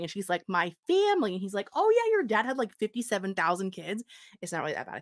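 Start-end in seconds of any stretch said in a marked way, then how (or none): 0.5-1.3 mock disbelief. Retold heroine reacts to news. 1.7-4.0 imitated breezy attorney. Retold attorney breaks the news.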